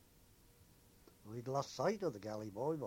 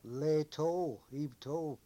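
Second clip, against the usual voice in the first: retold shout; 3 semitones higher, 6 dB louder, much slower than usual. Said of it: "shouted over".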